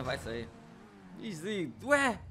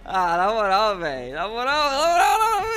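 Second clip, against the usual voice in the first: laughing while talking; 3 semitones higher, 11 dB louder than usual. Real, not acted. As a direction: talk through a laughing fit. Laughing fit while watching replay.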